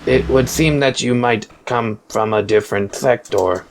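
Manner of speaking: lightly voiced robot, level monotone; horrible robot voice. Robot overseer explains itself to a drone, horrible robot voice. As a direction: read it like a stiff machine. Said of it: "That's a very horrible robot voice".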